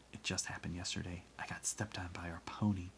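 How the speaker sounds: hushed, confiding whisper. A narrator's reading. Girl confides in another girl, whispering. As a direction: lean in and whisper it. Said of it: "I leaned close and whispered".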